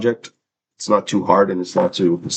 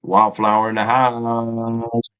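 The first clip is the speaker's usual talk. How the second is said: slow drawn-out hype call; hype announcer; 3 semitones higher, slower than usual. Real, not acted. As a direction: announce the viewer like a hype man. Hyping a featured viewer.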